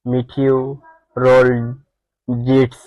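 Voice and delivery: "মিটিওরোলজিস্টস" said slowly, part by part; careful model pronunciation. Shown as a demonstration. Teacher giving the correct pronunciation, "মিটিওরোলজিস্টস" slow and divided. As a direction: spell out the sounds of "মিটিওরোলজিস্টস" slowly. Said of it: "সঠিক উচ্চারণ হবে".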